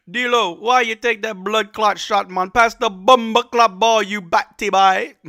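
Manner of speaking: put-on loud, high, slow Jamaican accent shout. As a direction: yell at the player in a hammed-up Jamaican accent. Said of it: "was my Jamaican accent good".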